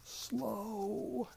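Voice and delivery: whispered shush, then "slow"; hushed whisper. Retold or imitated. Asking a Spanish speaker to slow down, whispered. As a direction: hush him to slow down. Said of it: "I said".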